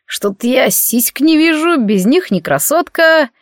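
put-on slow slurred drunk; drunk slurring. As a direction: drawl it like a tipsy lout. Drunk aristocrat keeps talking. (пьяный, тягучий голос)

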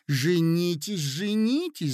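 eager calls, rising in pitch; clamouring cry. A narrator's reading. Ladies all urge the prince to marry, clamouring. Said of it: "закричали со всех сторон".

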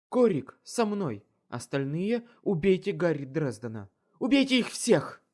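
loud, high, frenzied orders; asylum patient. Acted. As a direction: scream the kill command. Mad queen orders her troops.

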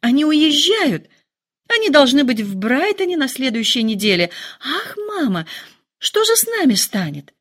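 officers pitched high and urgent; excited exclaim. Acted. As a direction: burst out like a giddy girl. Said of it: "воскликнула Лидия".

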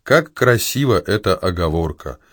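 ordinary talk, nothing marked

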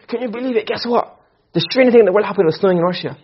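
quick, overhyped gossip about ordinary news; mock amazement. Teacher mimics someone hyping dull news, mock amazed. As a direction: oversell it like breaking news, a touch hammed-up. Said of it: "if you're trying to say".

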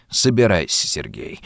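put-on gloomy old man, dropping low and soft on the name; sullen grumble. A narrator's reading. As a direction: grumble it under the breath. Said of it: "угрюмо проворчал Ладышкин". (угрюмое ворчание)

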